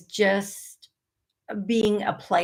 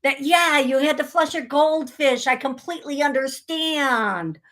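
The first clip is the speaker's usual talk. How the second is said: mock sympathy; 4 semitones higher than usual. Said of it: "And then we're like".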